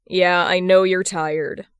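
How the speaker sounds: slow, gentle consoling; slow comfort for an exhausted patient. Acted. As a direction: soothe a tired sick brother, slowly. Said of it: "Hood consoles".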